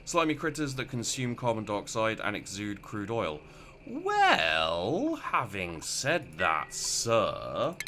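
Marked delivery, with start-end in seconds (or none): 3.9-7.7 drawn-out, slow mock-formal delivery; lightly voiced stuffy gent addressing sir; odd put-on voice. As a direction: stretch it like a pompous gentleman. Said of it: "I don't know why I'm talking like this".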